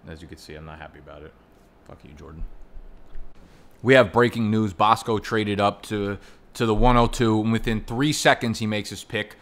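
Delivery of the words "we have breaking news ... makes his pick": loud, booming mock news bulletin; breaking news announcer. Host announcing a draft trade to listeners, mock news anchor. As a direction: boom it out like a TV anchor breaking a story.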